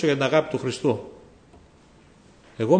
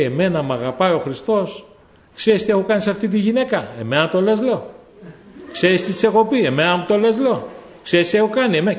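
retold sobbing man; 5 semitones higher than usual. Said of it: "να μου λέει".

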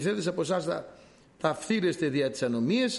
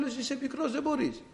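doubting king Saul; 8 semitones higher than usual. Retold or imitated. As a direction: dismiss the boy gently but firmly. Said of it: "Του λέει ο Σαούλ".

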